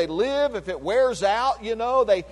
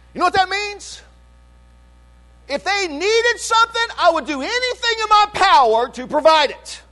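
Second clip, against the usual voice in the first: higher, louder preaching voice; rising preaching; 9 semitones higher, 4 dB louder than usual. Acted. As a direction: build it up for the congregation. Preaching about grandchildren.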